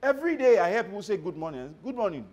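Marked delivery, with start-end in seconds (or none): 1.2-2.2 lifeless, bored greeting; dull good morning. Shown as a demonstration. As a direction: say it without meaning it. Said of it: "doesn't even sound like the morning is good".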